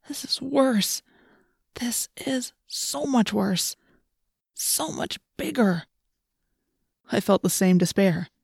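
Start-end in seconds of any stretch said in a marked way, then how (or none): 0.1-5.9 high soft slow whisper of dread; whisper, horrified. Acted. Dread at huge cavern.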